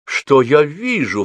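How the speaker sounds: high, loud, drawn-out gallant exclamation; exclaiming. A narrator's reading. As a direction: cry out slowly in storybook astonishment. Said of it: "вскричал Александр". (изумлённо вскричал)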